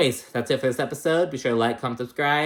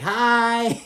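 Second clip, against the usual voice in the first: much higher, loud shouted greeting; big-energy hi; 12 semitones higher, 5 dB louder than usual. Retold or imitated. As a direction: burst in making an entrance. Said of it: "big energy".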